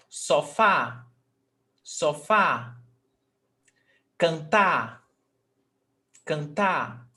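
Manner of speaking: slow, separate demo words, each stressed on its last syllable, like "sofá"; final-syllable stress. Shown as a demonstration. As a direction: land on the end of "cantar", "legal", "abacaxi". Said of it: "the last syllable is the stressed syllable".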